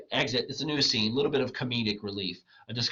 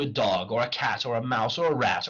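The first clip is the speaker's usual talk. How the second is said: measured, matter-of-fact recital; declaimed list; 3 semitones higher, 3 dB louder than usual. Acted. Wagner promises to teach the clown, declaimed evenly. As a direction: list each animal as a promise.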